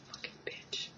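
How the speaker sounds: hissed in a whisper; whispered insult. Retold or imitated. Schoolgirl insulting a teasing classmate, whispered. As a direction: spit it under your breath. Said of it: "she'd be like".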